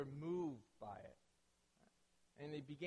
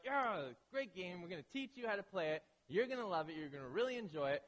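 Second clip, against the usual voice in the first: eager hype; 2 semitones higher, 3 dB louder than usual. Retold or imitated. Family hyping up the new player.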